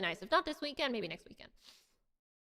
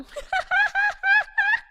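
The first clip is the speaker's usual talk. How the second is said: laugh through voice changer; 8 dB louder than usual. Real, not acted. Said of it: "My voice changer was on!".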